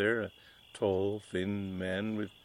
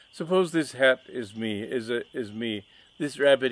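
mustache twirling villain; 2 semitones higher, 5 dB louder than usual. Acted. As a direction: rant at the rival, outraged. Villain explains with props.

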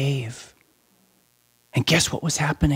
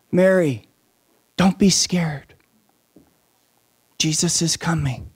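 gentle whispered comfort; angels calming a frightened Mary with hushed words. Acted.

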